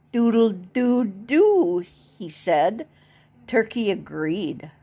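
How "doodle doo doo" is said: rooster crow. Acted. Rooster character crowing mid-sentence.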